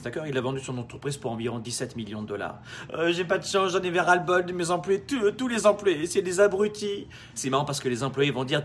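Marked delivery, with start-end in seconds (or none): 2.9-7.1 whiny complaining boss. Retold or imitated. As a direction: drag out the self-pitying grumble. Imitating complaining rich entrepreneur.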